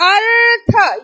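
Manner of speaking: अर्थ with the र sounded before थ; teacher modelling अर्थ; demo pronunciation. Shown as a demonstration. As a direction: say अर्थ clearly, r rolled ahead of the थ. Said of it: "उच्चारण स्थान कहाँ रहा है".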